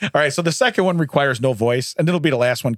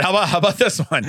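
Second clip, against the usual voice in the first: parrot voice; 4 semitones higher than usual. Pretend. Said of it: "in the parrot voice".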